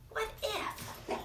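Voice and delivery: breathy high wonder on what if; hushed wondering question; whispered what if. Acted. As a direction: whisper it like a secret. Echoes book title whispered.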